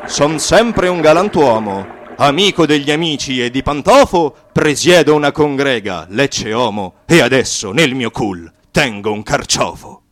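boss che proclama. Acted.

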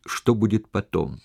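слегка выделить слово «потом»; сделай упор на «потом» в конце фразы; ударение на «потом». A narrator's reading. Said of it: "подчеркнул интонацией слова «потом»". (интонацией подчеркнуть «потом»)

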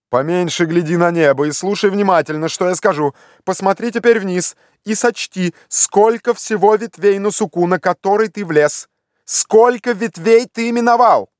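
lightly voiced impatient master calling upward; Legrand giving orders. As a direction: order the climber about from below.

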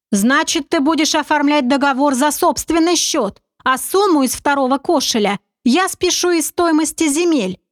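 a hint of a sly confident schemer; sly commander. Narrator voices commander Oleg.

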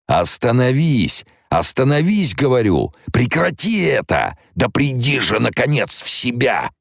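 a tyrant panicking as he loses control; Baron Harkonnen shouting. Acted. The baron inside Alia screaming at her to stop. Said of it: "слова, выкрикиваемые бароном Харконненом".

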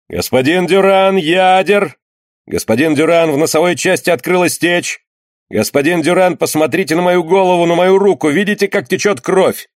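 high, insistent cries; urgent calls for help. A narrator's reading. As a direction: call out to the ship's surgeon in alarm. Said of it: "повторяли разные торопливые голоса".

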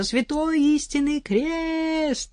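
high, slow sworn yell. Acted. Вдова орёт соседке клятву. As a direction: bellow the oath. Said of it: "заорала в ответ".

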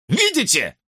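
high, urgent cry for proof; exclaimed. A narrator's reading. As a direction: blurt it out triumphantly. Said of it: "воскликнул Чед".

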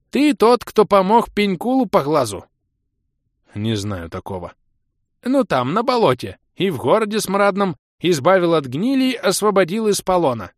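put-on high, loud singsong old creature. A narrator's reading.

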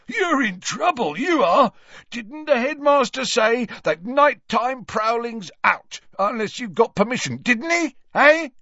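put-on high, nasty gloating old man; gleeful old caretaker. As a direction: relish catching a student out. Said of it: "glee on his face".

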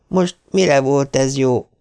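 magasabban, hangosan, lassan kiáltva; kétségbeesett gyerek kérdőre vonja a bántalmazókat; vékony, szorongó kiáltás. A narrator's reading. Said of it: "kiáltotta egy vékony, szorongó hang". (egy megriadt fiú lassan, hangosan kiált a verekedőkre)

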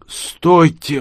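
put-on high creaking old man's cry; creaky old call. A narrator's reading. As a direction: call after them in a creaky voice. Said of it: "проскрипели сзади". (скрипучий стариковский окрик)

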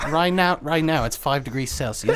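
mock BBC weather in a British accent; British weather read. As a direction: read the temperature like a British announcer. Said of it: "doing British accents".

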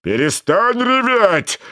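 stern yell to stop crying; shouting. A narrator's reading. Karabas shouts at the whining Buratino. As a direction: bark the order. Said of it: "крикнул Карабас-Барабас".

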